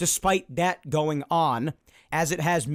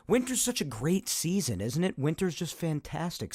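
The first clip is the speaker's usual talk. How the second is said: mock praise, softer and dry; sarcastic; 4 dB quieter than usual. Podcaster mocking the winter season, dry sarcasm. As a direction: fake enthusiasm for winter. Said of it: "said no one ever".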